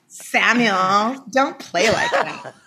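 slow, laughing tease; laughing scold. Real, not acted. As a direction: scold him through a laugh.

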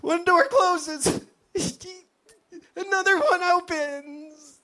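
high, slow, cracking cheerful voice; forced positivity. Acted. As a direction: stay upbeat while on the verge of tears. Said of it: "trying to stay positive while living in a haunted house".

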